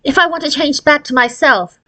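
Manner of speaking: put-on a girl fretting that it might go wrong; lightly voiced worried girl; young Gretchen, worried.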